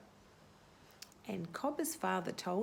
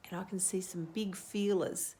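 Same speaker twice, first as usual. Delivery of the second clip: whisper. Real, not acted. Teacher points out hidden feelers to children in a whisper. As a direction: breathe it like a secret.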